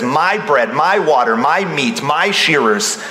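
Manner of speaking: "my" stressed before every item, evenly repeated. Shown as a demonstration. Preacher showing Nabal's selfishness, "my" emphasized each time. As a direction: lean on each "my" in the list. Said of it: "I emphasize the word "my".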